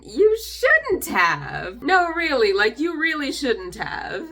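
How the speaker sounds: very slow, drawn-out mock gratitude; sarcastic thanks. Real, not acted. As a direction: pretend to be touched, dripping sarcasm.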